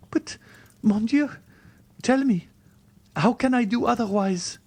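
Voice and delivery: put-on high-pitched, wounded young woman; distressed heroine, very high voice; despairing Valentine. A narrator's reading. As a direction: cry out the reproach, high.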